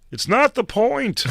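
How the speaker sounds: high, slow, prim therapist voice; serious therapist. Retold or imitated. Therapist scolding the comedian, high and slow. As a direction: lecture him primly, drawn out. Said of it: "And he goes".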